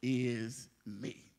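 slow, drawn-out mock wail; a hint of a whiny crybaby; mock lament. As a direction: moan it like a self-pitying crybaby. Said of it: "he always cried".

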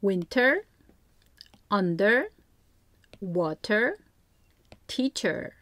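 "Winter" read as a separate example word with the er ending clear. Shown as a demonstration. Teacher reading example words for parents, slow and careful. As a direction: list each word carefully, one at a time. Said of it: "이렇게 아이가 알만한 다른 단어를 예로".

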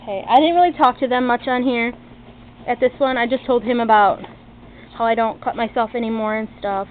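short of breath, breathing audible between words; shallow breathing. Real, not acted. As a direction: talk through shallow, labored breaths. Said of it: "I am so sorry about my, my breathing problems".

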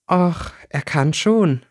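slow, knowing reply. A narrator's reading. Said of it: "sagte Rika wissend".

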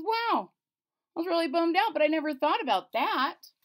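high, loud goofy king; a bummed-out king, perked up; hammed-up dopey king. King retold, casual.

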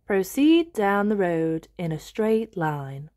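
slow, even machine voice; slow, measured device speech; sat-nav voice. Acted. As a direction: talk like a navigation robot. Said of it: "says the sat-nav".

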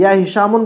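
"हिशामुन" with tanween, ending -un; double damma ending. Shown as a demonstration. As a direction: sound a final n on "हिशामुन". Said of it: "बोलेंगे तो दो दम्मा पढ़ रहे".

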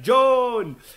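high, drawn-out call of a name. Acted. Scott calls his lost friend in the dark, calling out. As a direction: call after a lost companion. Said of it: "în zadar striga după el".

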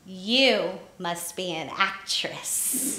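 slow, lightly voiced old woman; little old woman. Old woman looking intently at waitress, slow pronouncement. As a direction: pronounce it slowly, like a hint of an old lady. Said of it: "this little old woman".

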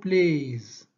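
"plays" ending in a buzzing z sound, slowed; final s as z. Shown as a demonstration. Teacher showing students the z ending, slow and careful. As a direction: stretch "plays" so the final s comes out as a clear z. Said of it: "برونونسي هاد اس، برونونسي ز".

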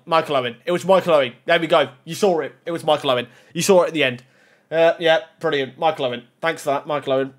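low, deflated muttering; dejected. Real, not acted. Gamer let down by pulling Michael Owen, dejected. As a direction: let the voice drop in glum resignation. Disappointed by a bad pull.

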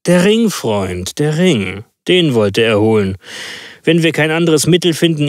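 lively, elated detective; Holmes triumphant. Acted. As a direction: exult in the clue to your friend. Holmes exults to the doctor.

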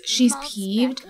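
unvoiced whisper, she's leaned on, rising; whispered aside. Real, not acted. Telling viewers about the angry sim, whispered. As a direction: share it like a secret.

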